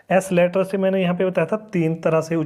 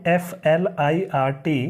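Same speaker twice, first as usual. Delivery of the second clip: slow spelling; slower than usual. Shown as a demonstration. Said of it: "तो यहाँ पे आई का यूज़ जो है ना अ की तरह होगा".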